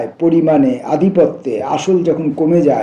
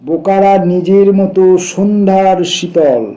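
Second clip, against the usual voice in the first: measured, raised poem-reading voice; poetry recitation. Acted. Reader sharing a poem about foolish birds, recitation. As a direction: recite in sustained, shaped phrases.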